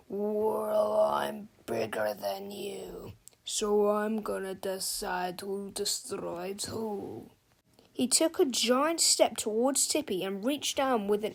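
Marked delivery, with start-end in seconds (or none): 0.1-7.3 low growl. Acted. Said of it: "with a growl".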